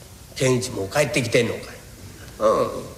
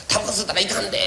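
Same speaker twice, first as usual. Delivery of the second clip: 「タバコ吸うたらいかんで」 a touch higher, gentle warning; mild retold warning; 5 semitones higher, much faster than usual. Wife shows husband how she warned the son, a touch higher. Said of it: "言うたらな".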